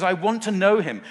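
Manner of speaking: loud, high, fervent declaration; passionate. Acted. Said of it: "can you hear the passion?".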